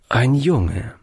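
a touch sheepish; etwas verlegen. Acted. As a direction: admit it a little awkwardly. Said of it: "antwortete der Alte etwas verlegen". (leicht verlegene Antwort)

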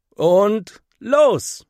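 loud, high go signal; shouting start. A narrator's reading. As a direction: call out the launch down the slide. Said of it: "ruft Henry". (Henry ruft laut und hoch los)

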